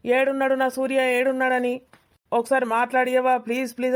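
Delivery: mock a girl whining please over and over; pleading girl. Friend imitates the girl begging about Surya, lightly pleading. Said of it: "రోజు అడుగుతాంది".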